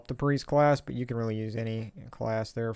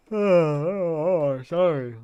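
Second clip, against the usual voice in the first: loud startled oh oh; 5 semitones higher, 8 dB louder, slower than usual. Real, not acted. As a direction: caught off guard by a bump. Knocks mic during stream.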